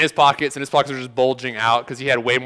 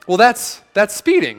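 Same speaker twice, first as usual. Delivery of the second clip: mock scolding; 7 semitones higher, 4 dB louder than usual. Imagined speeding ticket argument.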